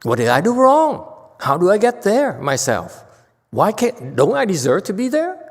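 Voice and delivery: imitating a self-doubting seeker; whiny self-pity. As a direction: moan about being small and insignificant. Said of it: "I say".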